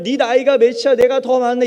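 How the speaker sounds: petty street squabble, imitated; loud quarrel. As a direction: argue back heatedly, acted. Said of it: "큰 소리로 막 싸우죠".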